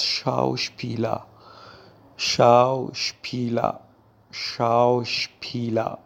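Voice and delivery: شاوشپیلا with sh at the start, said slowly; German word drilled. Shown as a demonstration. Teacher drilling learners on شاوشپیلا, slow and careful. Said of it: "لغت بعدی که به معنای بازیگر هست".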